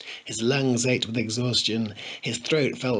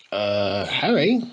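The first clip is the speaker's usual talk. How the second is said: breathless worried call; panting, short of air; out of breath; 2 semitones lower, 3 dB louder, much slower than usual. Acted. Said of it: "he panted".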